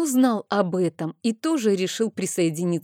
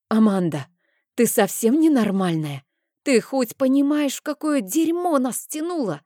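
still shouting; 8 semitones higher than usual. Acted. Rein keeps berating Amanda about the danger, rising outraged yell. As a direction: keep at her, voice climbing in alarm. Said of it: "Не унимался Рейн".

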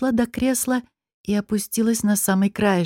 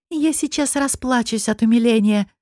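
through teeth; 3 semitones higher than usual. Acted. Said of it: "процедила Нетали".

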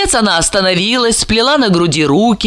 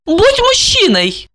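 shouted order; 13 semitones higher, slower than usual. A narrator's reading. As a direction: cry out at him in exasperation. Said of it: "крикнула она".

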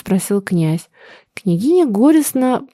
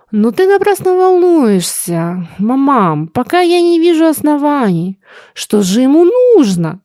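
higher, fretful mother's voice; anxious princess; 6 semitones higher, 3 dB louder than usual. Acted. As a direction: worry at her son. (встревоженная княгиня, выше)

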